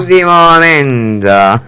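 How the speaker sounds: slow mock newsflash announcer; breaking news voice. Host mimics a TV news channel, with a slow, announcer-style breaking news headline. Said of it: "como crónica".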